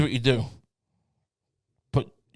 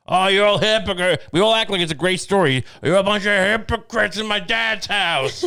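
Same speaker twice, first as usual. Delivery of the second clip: mock Jesus scolding; 4 semitones higher than usual. Jesus scolding temple moneychangers.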